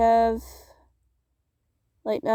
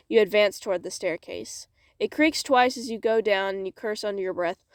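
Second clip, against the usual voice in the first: measured, expressive storytelling; story narration. Acted. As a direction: read it aloud like a dramatic tale. Reads story aloud.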